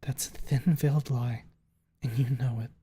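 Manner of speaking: deliberate, measured character line; slow accusation. A narrator's reading. Stella calling out the narrator's lie, said slowly. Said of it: "she says slowly after a long moment".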